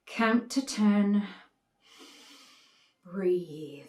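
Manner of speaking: slow, measured self-soothing; slow calm-down, dropping away at the end. Acted. Talks herself down.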